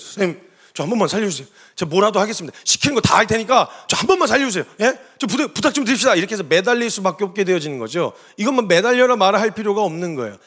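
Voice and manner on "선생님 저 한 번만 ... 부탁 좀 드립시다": acted earnest plea, mildly urgent; hurried begging that builds a little; desperate pleading. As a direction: beg for help like a patient at the doctor's mercy. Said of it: "이런 간절한 말이죠".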